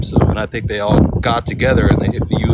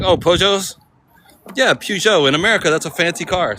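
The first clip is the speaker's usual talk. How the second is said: high, surprised mimic of a friend; mimicking friend; 7 semitones higher than usual. Vlogger mimicking Miss London's surprise, higher. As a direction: play a friend amazed that Peugeot counts as fancy. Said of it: "She was like".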